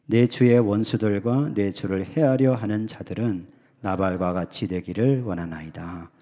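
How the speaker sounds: slow, solemn reading of the verse; measured reading from the pulpit; scripture reading. Shown as a demonstration. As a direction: read it out like scripture, unhurried. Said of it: "한번 먼저 읽겠습니다".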